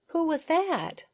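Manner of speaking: mumbled through a mouthful; mouth full. A narrator's reading. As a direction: talk while chewing nectar. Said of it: "with her mouth still full".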